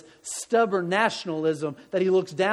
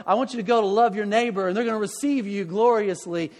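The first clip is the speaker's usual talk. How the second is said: imagined promise from God; 3 semitones higher, 3 dB louder than usual. Pretend.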